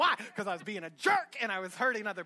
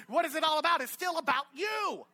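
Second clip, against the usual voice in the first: louder preaching, driving it home; preaching shout; 5 semitones higher, 4 dB louder than usual. Real, not acted. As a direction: hammer the point home loudly.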